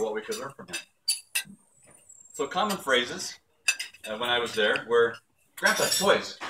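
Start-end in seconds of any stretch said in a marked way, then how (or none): 5.6-6.4 put-on higher, mildly eager toddler voice; lightly voiced little boy's demand; imitating grandson. Grandson calling Grandpa to play, imitated toddler request.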